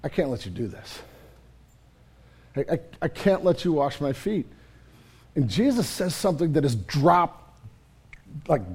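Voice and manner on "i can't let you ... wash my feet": lightly voiced, softer refusal; a hushed, insistent no from Peter; pleading Peter. Peter refusing Jesus, hushed and earnest. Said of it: "And Peter goes".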